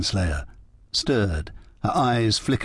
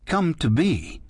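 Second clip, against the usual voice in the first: sudden alarmed question, pitched up; startled, a little worried; surprised and alarmed; 6 semitones higher, slower than usual. A narrator's reading. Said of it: "surprised and a little alarmed".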